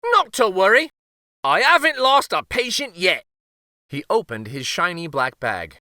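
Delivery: high, loud jolly reassurance; cheerful old uncle. Acted. Uncle to the king, high jolly reassurance. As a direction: reassure breezily as an old man.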